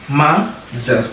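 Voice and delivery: MOTHER split slowly into "ma" and "tha"; demonstrated pronunciation. Shown as a demonstration. Teacher showing how to pronounce it, syllable-by-syllable MOTHER. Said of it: "Nii nga koy prononcer".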